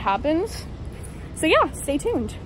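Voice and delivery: muffled behind surgical mask; talking through mask outdoors; through a face mask. Real, not acted. Seen 4: Surgical mask covers mouth and nose throughout; references show none.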